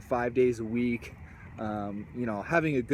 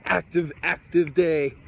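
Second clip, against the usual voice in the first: winded after jogging across; puffing between words; out of breath; 5 semitones higher, 7 dB louder than usual. Real, not acted. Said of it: "if I sound a little bit short of breath".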